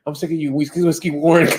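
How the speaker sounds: a hint of the complaining wife; mock nagging wife. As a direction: lightly imitate the fed-up missus. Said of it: "that the missus said".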